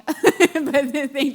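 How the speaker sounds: creaky vocal fry voice. Real, not acted. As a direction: talk through a tired vocal fry. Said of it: "I apologize for my vocal fry".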